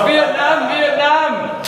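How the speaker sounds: very high, loud mock chant of a name; imitating Smokey Man. Quoting Smokey Man pointing at the sun, high and loud. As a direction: squeal it out like the old man. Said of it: "And he goes".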